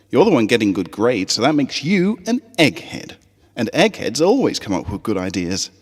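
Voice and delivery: a doubtful little pony teasing her friend. Acted. Scootaloo teases.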